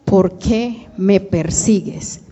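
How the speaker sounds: slow, measured reproach; lightly acted question, drawn out word by word; Jesus questioning Saul. Preacher revoices Jesus questioning Paul.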